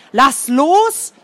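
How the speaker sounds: mild fearful shout; fearful yell. A narrator's reading. Boy scared for his friend, mild fearful yell. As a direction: yell at him to let go, scared. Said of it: "brüllte Adlerkralle voller Angst".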